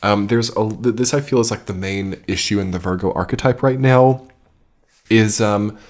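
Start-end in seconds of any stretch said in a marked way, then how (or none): none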